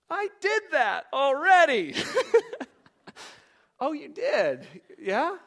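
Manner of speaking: high, loud laughing quote of Ashley; laughing through it. Retold or imitated. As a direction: laugh while reporting her answer. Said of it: "And she's like".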